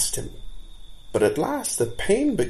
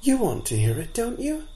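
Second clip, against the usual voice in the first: bold fawn; 13 semitones higher than usual. A narrator's reading. Fawn coaxing the captain.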